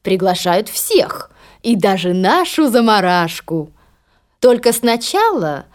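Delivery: slow, sly stepmother. Acted. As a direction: drag it out slyly. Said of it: "хитро подмигнув дочерям".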